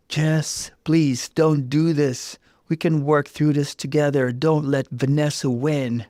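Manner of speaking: stunned plea. Acted. Mark begging Jess to stay, stunned plea. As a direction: beg her not to leave. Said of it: "Mark was stunned".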